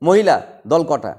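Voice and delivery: মহিলা said slowly, syllables stretched; slow-motion syllable demo. Shown as a demonstration. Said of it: "slow motion করো".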